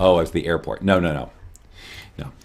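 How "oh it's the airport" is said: ordinary talk, nothing marked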